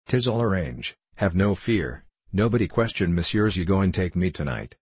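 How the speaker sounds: a hint of an assured Frenchman; lightly accented French gambler, untroubled by refusal; touch of French accent; lightly voiced French gambler.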